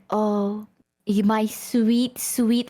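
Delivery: teasing, drawn-out sweet-talk; lightly voiced slow syrupy endearment; Yusan. Imitating a friend teasing on stream, sweet-talk voice. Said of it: "talk to me in that voice".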